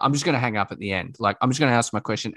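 lightly mocking caller, fast; rushed caller impression. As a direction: rattle it off fast like a talkback caller. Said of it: "and they're like".

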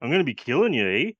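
a lightly done friendly Canadian Nazi; mock Canadian. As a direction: drop into a mild Canadian accent, eh. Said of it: "like Canadian Nazis".

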